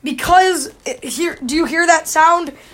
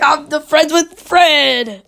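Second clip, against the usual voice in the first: imitating dad; 4 dB louder, slower than usual. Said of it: "And he's like".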